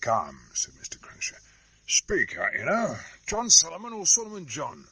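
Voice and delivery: rough hoarse commoner; blunt, hoarse and pushy; Cruncher's voice. Acted.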